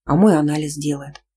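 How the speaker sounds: plain reading voice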